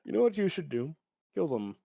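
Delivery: a hint of a scheming evil eunuch; soft, sly evil eunuch voice. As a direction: murmur it like a sly evil adviser. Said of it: "what I called the evil eunuch".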